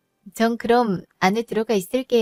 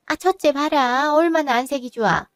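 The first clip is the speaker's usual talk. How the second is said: pointed comparison; 4 semitones higher than usual. Acted. Mother-in-law compares younger son with the eldest, pointedly admonishing. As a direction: hold up the elder as an example.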